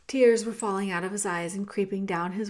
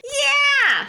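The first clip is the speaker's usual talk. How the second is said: very high, loud rat yell; shrill agreement from the crowd; shouted; 10 dB louder than usual. A narrator's reading. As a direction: squeal it out at full volume. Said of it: "shouted another".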